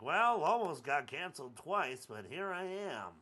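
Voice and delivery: slow, lightly voiced late-night host; a loose stab at a talk-show host; drawn-out, half-hearted host voice; Jimmy Kimmel impression. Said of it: "That's not a very good Jimmy Kimmel voice".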